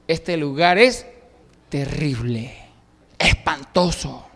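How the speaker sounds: hushed, slow awe; mild awestruck dread; awed fear. Retold or imitated. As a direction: say it as if frightened by the holy place. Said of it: "Él se asustó".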